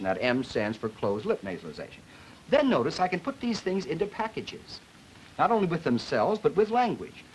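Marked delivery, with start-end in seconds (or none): none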